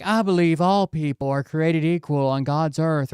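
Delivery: sanctimonious put-on voice; mock pious voice. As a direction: parody a preachy dodge. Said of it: "And they're like".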